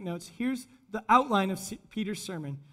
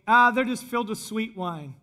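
louder, lightly acted scoff; mocking; 5 dB louder than usual. Onlookers mocking the disciples, lightly scoffing. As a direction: brush it off with mild mockery. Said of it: "others were mocking them".

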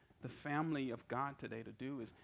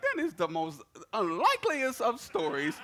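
laughing disbelief; 6 semitones higher, 11 dB louder than usual. Retold or imitated. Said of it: "I'm like".

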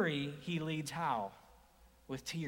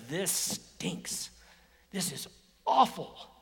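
understated, heavy with sorrow; lightly voiced grief; slower than usual. Preacher voicing Jesus' grief at Lazarus' tomb, understated. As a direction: say it like it hurts.

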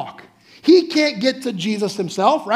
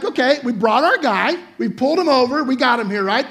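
eager friends; 4 semitones higher, 3 dB louder than usual. Pretend. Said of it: "these guys are like".

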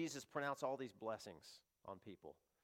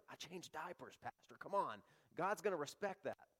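a lightly voiced, higher, defensive church member; mock churchgoer protesting his own goodness; self-justifying churchgoer; 3 semitones higher than usual. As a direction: list your good deeds, pleading to the pastor. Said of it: "How do you know that God's gonna let you into heaven?".

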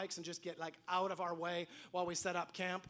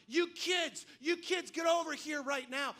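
high mock shout at the kids; mock yelling dads; 5 semitones higher than usual. Dads shouting at the kids at the fort: mock angry yell. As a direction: bark it like an angry dad. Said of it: "they started yelling at us".

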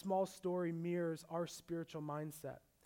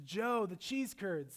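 imitating wife; 4 semitones higher, 6 dB louder, slower than usual. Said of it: "That's how she speaks".

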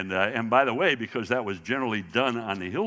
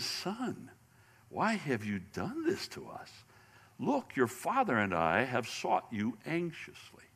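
a softer, hushed mother's plea, lightly voiced; mild retold whisper; 6 dB quieter than usual. Mother quietly pleading with her lost twelve-year-old son, hushed. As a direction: murmur it close, like into a boy's ear. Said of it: "whisper in his ear. And she says".

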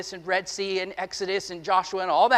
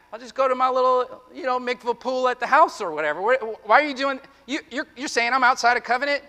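mock offended listener; faster than usual. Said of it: "Don't say".

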